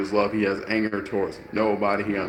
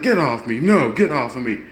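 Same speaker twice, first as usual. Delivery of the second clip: put-on drunk guy protesting; 3 semitones higher, 5 dB louder than usual. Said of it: "Drunk guy's like".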